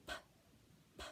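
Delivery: P said as a short puff of air; breathy puff on P; puffed P sound. Shown as a demonstration. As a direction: blow out P like candles on a cake. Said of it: "like puff out the candles on the cake".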